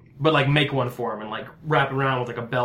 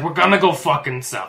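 irritated, at an everyday pitch; exasperated retort; 4 dB louder than usual. Acted. Rescuer answering injured man, mildly exasperated. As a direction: snap it back in mild frustration. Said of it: "I was like".

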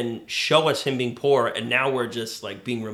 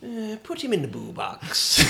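Captain Hook voice; 9 semitones higher than usual. Retold or imitated. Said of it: "I just got hook vibes there".

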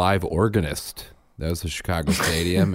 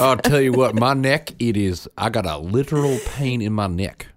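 Midwestern accent; 3 semitones higher than usual. Real, not acted. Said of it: "In your classic Midwestern accent".

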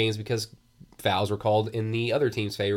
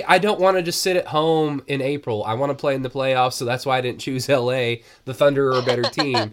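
blunt honest answer; 3 semitones higher, 4 dB louder than usual. Retold or imitated. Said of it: "Just say".

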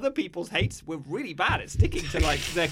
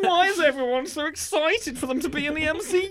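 higher, louder gruff toy voice; gruff tinny action figure line; Ned Newbury action figure; 11 semitones higher, 5 dB louder than usual. Retold or imitated. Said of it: "This is our Ned Newbury action figure talking".

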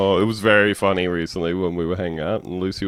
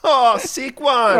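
slow, high, blissed-out party caller; elated radio caller; 13 semitones higher, 4 dB louder, slower than usual. Acted. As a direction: draw it out like a wasted, delighted punter. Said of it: "he's having the time of his life".

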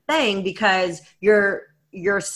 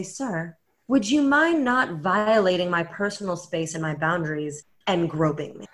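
understated, softly polite request; mock calm; 4 dB quieter than usual. Woman to the man who grabbed her, mock calm. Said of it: "very calmly turn around and say".

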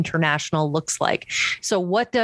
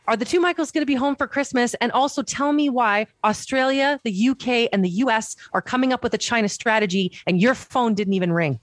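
higher, insistent mock reporter grilling; getting mad; 3 semitones higher than usual. Commentator voicing reporter demanding answers from Justin, heated. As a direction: press him hard with each question. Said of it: "Oh, no, I'm getting mad".

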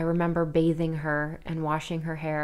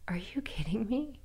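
deflated whisper; 5 semitones higher, 6 dB quieter than usual. Real, not acted. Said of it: "deflated disbelief".

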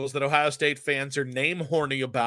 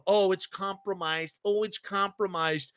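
whiny mock quote, a little higher; mocking complainer; 3 semitones higher than usual. Host mimics bitter fans crying foul, mocking whine. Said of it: "You sound like a bitter little baby".

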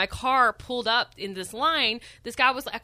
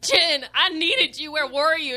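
retold reproach; 5 semitones higher, 4 dB louder than usual. Retold complaint to her friend.

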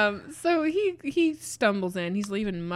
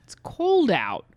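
whispering; 2 semitones higher, 7 dB louder, slower than usual. Acted. Hushed nurse aside.

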